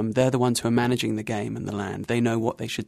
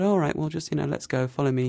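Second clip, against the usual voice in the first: casual; 4 semitones higher than usual. Retold or imitated. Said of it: "he sort of very casually said".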